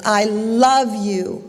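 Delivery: slow, stretched echoed declaration; lightly voiced echo. Echo returning the father's love, slowly stretched, lightly voiced. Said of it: "the voice comes back and says".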